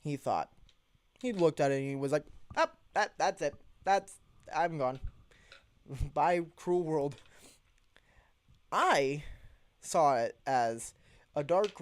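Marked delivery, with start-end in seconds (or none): 2.6-7.2 higher, hammed-up I'm-gone voice; mock farewell to the world; mock doomed resignation. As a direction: play the friend giving up on life. Friend retells his fright.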